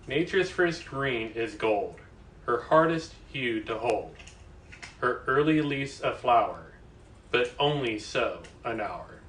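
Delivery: slow, measured poetry reading; poem recital. Acted. Reader shares a favourite poem with livestream viewers, slow recital. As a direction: recite verse slowly, pausing after each line.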